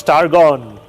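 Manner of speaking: mild acted scream. Warrior calling his long-lost brother, mild acted scream. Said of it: "And he screams".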